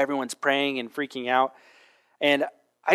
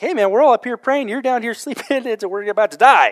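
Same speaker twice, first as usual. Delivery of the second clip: higher and much louder, a mock scolding yell at the sleeper; ship's captain yelling at Jonah to wake up and pray, mock scolding shout; 9 semitones higher, 9 dB louder than usual. Captain berating the sleeping Jonah, hammed-up yell. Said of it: "and he scolds him".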